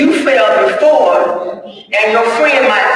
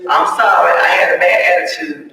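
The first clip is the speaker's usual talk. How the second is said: sorry prayer. Retold or imitated. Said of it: "I said".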